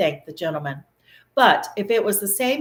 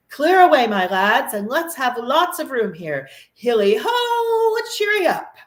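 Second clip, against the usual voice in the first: much higher, louder merry shouts; hearty cry; 6 semitones higher, 5 dB louder than usual. A narrator's reading. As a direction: call the lads to clear the floor. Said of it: "cried old Fezziwig".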